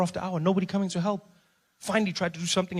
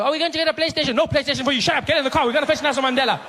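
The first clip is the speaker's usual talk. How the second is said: much higher, loud bossy hurry; excited ordering; 7 semitones higher, 4 dB louder, faster than usual. Acted. Speaker orders his family into the car, high and loud.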